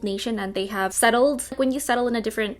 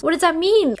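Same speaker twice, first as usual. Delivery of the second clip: puzzled; 7 semitones higher, 6 dB louder than usual. Retold or imitated. Asking comedian phrase meaning.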